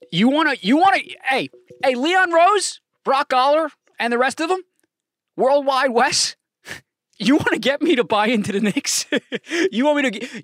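loud, high excited pitch to the Knicks bosses; hyped call-out. Real, not acted. Fan shouting at Knicks executives, loud and excited. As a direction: sell it like a fan begging to be convinced.

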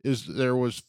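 can't keep a straight face; laughing while telling. Real, not acted. Telling friends the bartender story, laughing through it.

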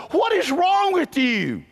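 high, slow, loud disbelieving question; a bit of mock disbelief from the crowd; incredulous onlooker. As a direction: ask it like they think you've lost it. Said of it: "they look at me and they go".

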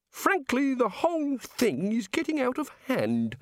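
high, eager voice of the god; high-pitched, fussy god voice. Acted. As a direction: play the chatty, enthusiastic creator god.

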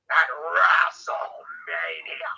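slow, drawn-out shouted call; announcer call. Acted. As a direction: stretch it out like a ring announcer. Drawn-out hype call of the event.

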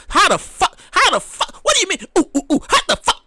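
hammed-up disbelief; exaggerated confused outcry; mock baffled outrage.

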